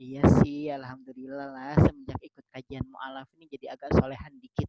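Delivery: coy mock-modest reply; acted bashfulness. Praised convert replying about the study group, mock-bashful modesty. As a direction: accept praise with put-on shyness. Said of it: "sambil malu-malu gitu kan".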